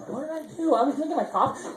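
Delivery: put-on high, whiny protest of a kid. Boy protesting to his mom, high mock whine. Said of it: "I'm like".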